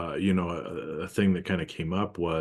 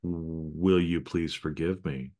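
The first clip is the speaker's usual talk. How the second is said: loving apology; slower than usual. Retold or imitated. To his partner, asking forgiveness slowly and tenderly. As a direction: ask gently, meaning every word. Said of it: "totally different kind of loving energy".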